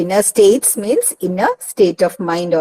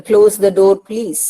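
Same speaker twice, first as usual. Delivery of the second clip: giving an order; 3 dB louder, slower than usual. Shown as a demonstration. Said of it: "See, for example".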